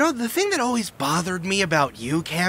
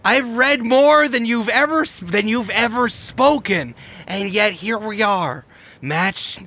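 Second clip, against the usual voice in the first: bitter rival rant; 7 semitones higher than usual. Acted. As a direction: lecture a rival with contempt. Rival's heated villain monologue.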